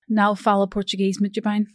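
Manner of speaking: English speaker attempting a Portuguese accent; Portuguese phrase in English accent. Shown as a demonstration. English host shows co-host her one Portuguese phrase, in an English speaker's Portuguese accent. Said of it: "my Portuguese accent and everything's probably so bad".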